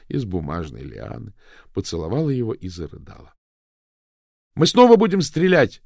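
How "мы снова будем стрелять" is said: loud, much higher yell; defiant shout. A narrator's reading. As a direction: cry it out over the confusion. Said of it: "закричал Пилу".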